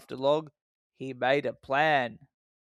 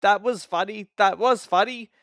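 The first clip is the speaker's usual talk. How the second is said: chuckle; 4 semitones higher, 5 dB louder than usual. A narrator's reading. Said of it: "he chuckled".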